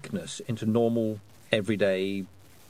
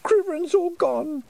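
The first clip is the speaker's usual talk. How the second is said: put-on very high, small child's voice, sadly; a lonely little boy missing them; 4 dB louder, slower than usual. A narrator's reading. Wentworth speaking.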